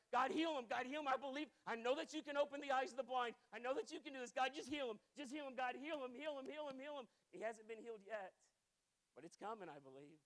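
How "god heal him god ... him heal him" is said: pleading prayer. Retold or imitated.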